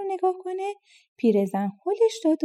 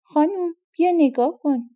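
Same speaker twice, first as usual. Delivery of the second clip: a mild mock shout, pitched higher; servant calling out; 5 semitones higher, 3 dB louder than usual. Servant girl calls her mistress to the window, mildly raised shout. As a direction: call the mistress over in a lightly raised voice. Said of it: "فریاد زد که".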